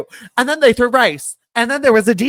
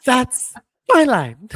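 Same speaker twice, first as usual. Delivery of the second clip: laughing through the words, slower; 5 semitones higher, 4 dB louder, slower than usual. Retold or imitated. Friend retelling a wrestling scene, laughing. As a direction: giggle out the quoted line.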